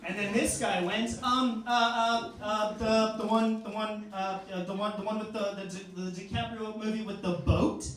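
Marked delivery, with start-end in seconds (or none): 1.2-7.9 hesitant searching. Retold or imitated. Acts out a guy groping for title.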